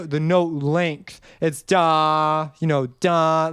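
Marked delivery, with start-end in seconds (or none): 1.6-2.5 long, sweeping DA; big, sustained "da"; legato accent. Shown as a demonstration. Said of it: "this is a sweeping, long". 2.9-3.5 long, sweeping DA; big, sustained "da"; legato accent. Shown as a demonstration. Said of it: "this is a sweeping, long".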